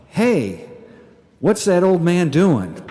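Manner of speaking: put-on loud, high kid's shout, drawn out; little boy calling out. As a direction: imitate a small boy yelling across a playground. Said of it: "call out".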